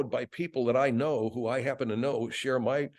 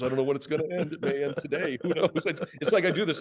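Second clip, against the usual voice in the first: usual speaking voice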